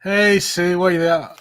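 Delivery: welcoming a viewer named Sue; cheery greeting. Real, not acted. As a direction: call her in with pleasure.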